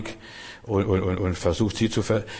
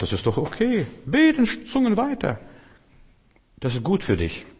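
exultant encouragement; 10 semitones higher than usual. Retold or imitated. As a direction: voice leaps very high. Spricht erlösende Antwort des Geistes nach. (begeisterter, ganz hoher Zuspruch)

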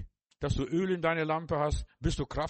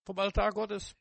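"Vom Altar Gottes" repeated higher, stress on "Altar"; 4 semitones higher than usual. Shown as a demonstration. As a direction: lift the repeat up, lean on "Altar". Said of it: "wo die Ströme herkommen?". („Vom Altar Gottes“ höher wiederholt, Betonung auf „Altar“)

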